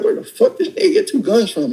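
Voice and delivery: stunned outrage, voice jumps up; shocked disbelief. Retold or imitated. Seeing the robber with two guns, shocked and high. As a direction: pitch shooting high in disbelief.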